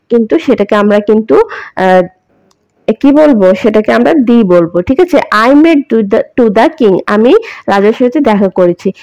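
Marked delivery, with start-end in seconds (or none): 5.2-7.0 a slight emphasis on "the"; stress on "the". Shown as a demonstration. Teacher giving an example of emphatic "the", lightly stressed "the". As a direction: lean a little on "the" before "king". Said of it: "এটা একটু জোর দিয়ে বললাম না?".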